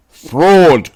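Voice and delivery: "Fraud!" cried out loud and high, falling hard; outraged shout from thousands of fans; angry crowd cry. A narrator's reading. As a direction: bellow it like a furious crowd. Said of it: "cried the maddened thousands".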